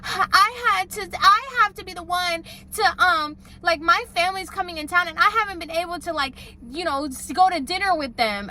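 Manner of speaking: high, whiny, mock-tearful complaint; mock crying. Boss whining to the social media girl, mock tearful. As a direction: play the boss half-sobbing.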